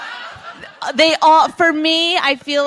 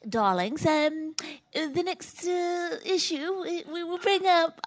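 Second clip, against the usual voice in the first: put-on posh English accent, higher pitched; 9 semitones higher, 7 dB quieter, slower than usual. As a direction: play a snooty English lady calling her darlings. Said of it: "in an English accent".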